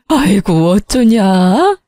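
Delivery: slow, rising wailing words; wailing lament. Acted. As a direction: moan it out in mock mourning. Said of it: "대성통곡을 하더라고요".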